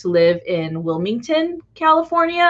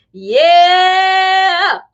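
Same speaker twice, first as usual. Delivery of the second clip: laughing yeah; 10 semitones higher, 6 dB louder than usual. Retold or imitated. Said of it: "And I'm just like".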